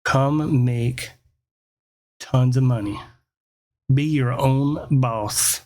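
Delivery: slow, measured ad pitch with big pauses; ad read. Retold or imitated. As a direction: read it like a tempting classified ad. Reading out a newspaper ad.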